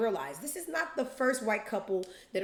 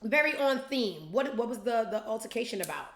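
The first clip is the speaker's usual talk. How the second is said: mock polite interest; 2 semitones higher, 3 dB louder than usual. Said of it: "I'm just like".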